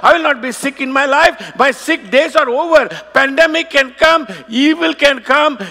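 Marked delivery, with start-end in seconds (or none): 0.1-2.8 bold confession. Shown as a demonstration. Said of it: "change your direction and say".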